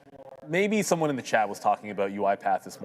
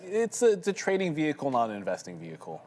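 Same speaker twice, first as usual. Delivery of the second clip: upbeat TV pitchman voice; infomercial voice; 3 semitones higher than usual. Shown as a demonstration. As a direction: sell it like a late-night TV ad. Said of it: "which is like the infomercial voice".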